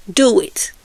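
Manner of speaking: a hushed plea to obey; whispered urging. Real, not acted. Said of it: "urging obedience".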